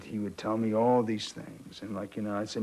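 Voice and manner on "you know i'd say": usual speaking voice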